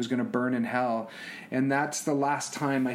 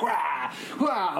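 imitated child wail; 5 semitones higher than usual. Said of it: "like, falling apart".

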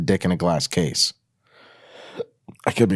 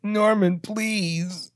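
breathy begging plea; 11 semitones higher, much slower than usual. Acted. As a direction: beg him like a hammed-up starlet. The speaker begging in read scene.

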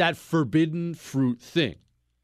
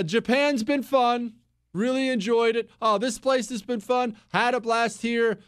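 higher, breezy and upbeat; mock cheerful traveler; 7 semitones higher than usual. Host mimicking his overseas self, upbeat and higher. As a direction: chirp it like a happy tourist. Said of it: "look, I did".

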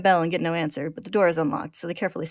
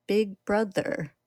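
very slow, uncanny little voice; haunting slow child echo; eerie childlike chimera; 4 semitones higher, much slower than usual. A narrator's reading. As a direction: drag it out, heartbreaking. Chimera says Nina's words.

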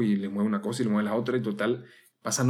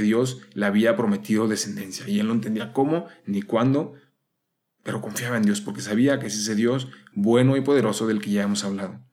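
louder, urgent preaching with pressing questions; impassioned preaching; 4 dB louder than usual. Acted. Novice preacher urging listeners to trust God, fervent and louder. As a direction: drive the questions home like a preacher.

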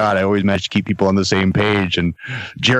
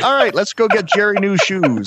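laughing; 10 semitones higher than usual. Retold or imitated. Retelling puke shoes story, laughing.

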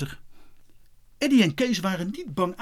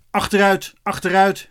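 raised, higher policeman's command; loud repeated command; called-out order; 4 semitones higher, 5 dB louder than usual. A narrator's reading. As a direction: order the crowd back, loudly. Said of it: "riepen de twee dienders".

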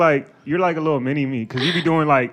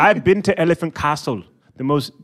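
put-on London accent; English accent. Shown as a demonstration. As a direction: tell it like a mock East Londoner. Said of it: "when I think English accent".

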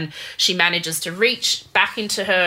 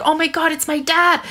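mock panicked gasp; 10 semitones higher than usual. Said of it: "And Jennifer's like".

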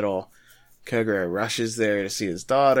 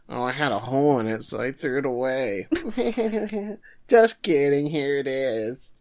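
quick, teasing put-on voice; playful clerk; 3 semitones higher, 3 dB louder than usual. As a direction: tease then hand it over.

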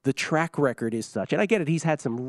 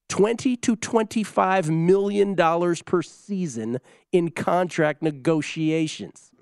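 slow, emphatic announcement of a huge sum; dramatic reveal; 4 semitones higher, 3 dB louder, much slower than usual. Real, not acted. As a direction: draw out the figure for effect, higher at first. Big figure announced after "ready.

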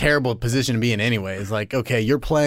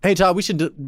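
laughing through the line; 3 semitones higher than usual. Real, not acted. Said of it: "I'm laughing".

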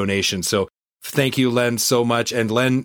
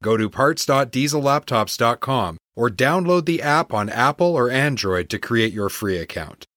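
chipper 1950s ad; 2 semitones higher than usual. Acted. Host reads sponsor ads.

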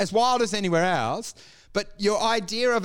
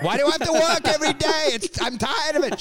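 higher, fast, hammed-up complaint; whiny Larry voice; mock whining Larry; 8 semitones higher than usual. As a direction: moan about work.

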